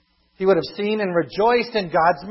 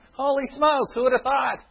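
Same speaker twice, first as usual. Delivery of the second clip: laughing amazement; 8 semitones higher than usual. Real, not acted. Amazed at Nineveh repenting.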